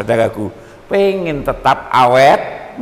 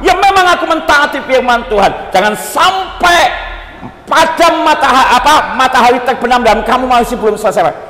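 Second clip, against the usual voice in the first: mock husband excuse; 5 semitones higher, 3 dB louder than usual. Husband justifying his anger.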